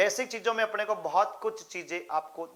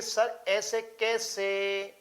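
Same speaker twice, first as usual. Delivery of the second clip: drawn-out student protest, lightly imitated; imitated questioning student; 3 semitones higher, much slower than usual. Student objecting to the teacher about the board's answer, imitated drawn-out protest. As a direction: mimic a student objecting, stretching the words slowly. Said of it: "आप भी कहोगे कि".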